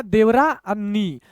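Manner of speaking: slow, the two parts kept apart; broken into parts. Shown as a demonstration. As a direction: set out each part for a learner. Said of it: "एक एक अक्षर आपको तोड़ के".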